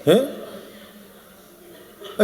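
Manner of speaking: ordinary talk, nothing marked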